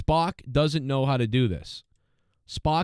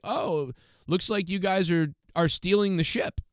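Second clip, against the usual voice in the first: higher-pitched mimicked observation; mocking know-it-all imitation; mock knowing remark; 6 semitones higher than usual. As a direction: imitate her instant realization, pitched up. Mocks engineer's instant knowing.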